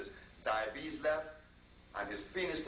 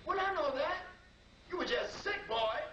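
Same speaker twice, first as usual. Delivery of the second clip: much higher, fond woman's voice; voicing the wife. Wife answers her husband's declaration of love, in a high fond voice.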